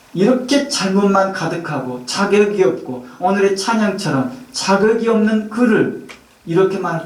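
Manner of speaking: normal talking voice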